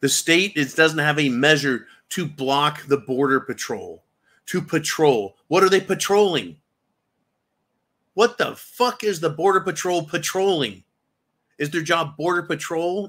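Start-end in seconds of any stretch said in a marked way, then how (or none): 5.5-13.1 angry rant. Real, not acted. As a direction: demand it in outrage. Ranting at the Border Patrol.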